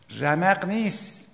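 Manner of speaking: slow, dragged-out sleepy groan of an excuse; mock sleepy believer refusing to rise; drowsy excuse. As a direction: drawl it like someone too tired to get up. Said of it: "آقا رمق نیست".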